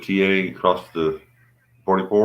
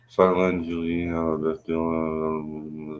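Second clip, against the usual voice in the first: mumbling; 4 dB quieter, much slower than usual. Real, not acted. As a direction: mumble the words to yourself. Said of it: "You're mumbling".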